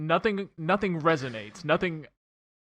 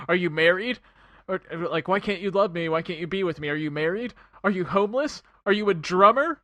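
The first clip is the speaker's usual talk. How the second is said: mock frantic; 5 dB louder than usual. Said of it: "she's like".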